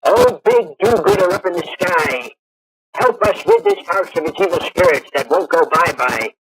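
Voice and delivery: hammed-up exorcist, starting high; host mimics a parody professor ridding a house of spirits, mock solemn; Professor Blokes voice. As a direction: pray grandly and silly to the sky, like a mock exorcist. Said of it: "exercises the house and says things like".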